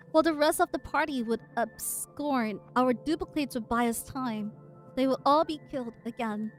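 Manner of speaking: measured dramatic reading; story narration. Acted. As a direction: read the lines like a narrator. Reading the comic aloud.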